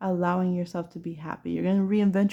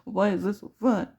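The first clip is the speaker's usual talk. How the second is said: grumpy whine. Retold or imitated. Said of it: "you're kinda a little grumpy".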